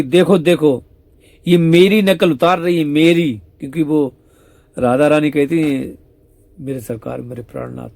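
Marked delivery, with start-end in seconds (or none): 0.0-3.4 higher, louder indignant tattling; indignant complaint. Acted. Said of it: "तब तक सी जी कहती". 6.6-7.9 soft, tender address to the beloved; tender murmur. Retold or imitated. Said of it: "ऐसे बोलते हैं".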